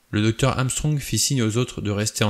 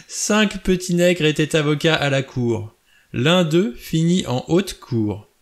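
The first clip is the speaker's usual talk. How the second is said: high, mocking nursery-rhyme recitation; raised pitch, theatrical derision; hysterical outburst; 6 semitones higher, 4 dB louder than usual. A narrator's reading. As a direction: chant it with unhinged glee after laughing. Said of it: "surpris et choqués par son éclat".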